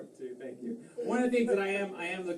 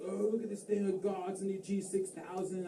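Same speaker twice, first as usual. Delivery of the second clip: higher-pitched mock British enthusiast; British accent; 4 semitones higher than usual. Scuba diver showing off new gadget, mock British excitement. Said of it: "I don't know why they're British".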